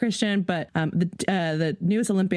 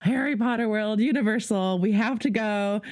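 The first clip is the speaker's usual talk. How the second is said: excited declaration; 5 semitones higher than usual. Retold or imitated. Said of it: "I was like".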